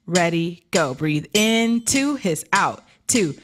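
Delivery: measured counting on a steady beat; exercise count-in. Shown as a demonstration. Coach leading students through a breathing drill, rhythmic counting. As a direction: count them through it, one number per beat.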